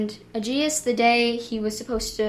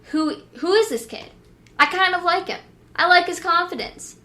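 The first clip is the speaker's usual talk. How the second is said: higher, curious townsfolk voice; admiring crowd; 7 semitones higher, 4 dB louder than usual. Retold or imitated. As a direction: sound charmed by the newcomer.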